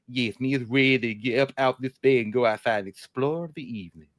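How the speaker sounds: lightly voiced dopey dog answering; dog's voice. Dog answering owner about going outside, lightly voiced. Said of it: "how a dog's voice would sound".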